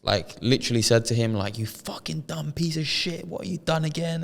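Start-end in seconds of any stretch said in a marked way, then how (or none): 1.6-4.2 a hint of a furious mother; mock telling off. Mum scolding her scammer son, mild mock telling off. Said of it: "gave him a bollocking in front of us".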